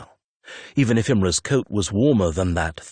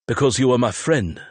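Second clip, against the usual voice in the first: bitten off; 5 semitones higher than usual. Acted. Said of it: "Imre bit off".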